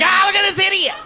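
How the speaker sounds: high, loud mocking jeer; hammed-up jeering onlooker; mock jeering bystander. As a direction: laugh at him like a bystander. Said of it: "Someone sees you like".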